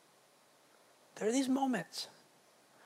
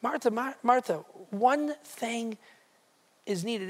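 caring tone; 3 semitones higher than usual. Retold or imitated. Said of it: "indicative of a caring tone".

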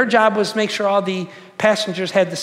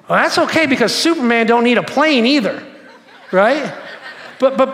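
laughing; 3 semitones higher, 4 dB louder than usual. Retold or imitated. Quick-witted stewardess comeback.

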